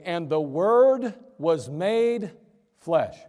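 slow, drawn-out reading; scripture reading. Acted. Preacher reading verse fourteen aloud, slow and solemn. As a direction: let each word land slowly.

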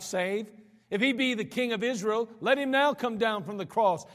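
lightly voiced taunting priests; preacher retelling the priests' taunts at the cross, mildly mocking. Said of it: "the chief priest mocked him".

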